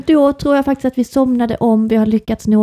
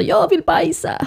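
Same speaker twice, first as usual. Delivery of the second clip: imitated child's demand, high and drawn-out; slow, high-pitched mimicked kid's call from bed; Agge; 8 semitones higher, slower than usual. Mother mimicking son calling from bed, imitated child's cry. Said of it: "så skriker han så".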